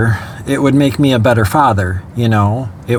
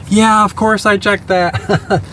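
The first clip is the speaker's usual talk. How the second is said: tearful exasperation; 7 semitones higher, slower than usual. Retold or imitated. Retelling frantic call with wife.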